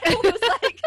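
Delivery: high, loud laughing through words; real laughter breaking in. Real, not acted. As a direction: laugh while telling it. Laughing mid-story.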